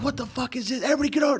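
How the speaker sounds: high-pitched imitation of a yelling supervisor; retold holler; mock yell. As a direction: act out the outraged boss, pitch up, volume held back. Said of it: "He starts yelling at all the".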